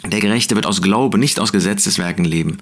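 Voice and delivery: „Glauben“ betont gegen „Gesetzeswerken“; stress on Glauben. Shown as a demonstration. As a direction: Kontrast setzen, „Glauben“ hervorheben. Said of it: "Das ist die Betonung bei, ähm, diesem Brief". (Nachdruck auf „Glauben“, dann „nicht aus Gesetzeswerken“)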